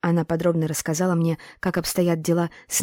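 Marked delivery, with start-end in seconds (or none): none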